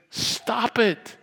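high-pitched mock telling-off; crowd's scolding. Crowd interrupting the beggar, high mock scolding. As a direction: squeal it as the annoyed crowd. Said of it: "The crowd says".

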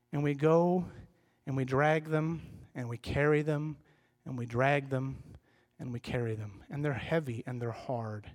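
low, halting list that sinks and fades; weary, burdened. Acted. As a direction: weigh each phrase down as if hauling a load. Enacts dragging a heavy burden.

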